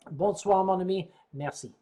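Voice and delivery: a light put-on British accent for the French goodbye; mock British accent. Saying goodnight to a viewer in a mimicked British accent. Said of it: "that mimic British accent".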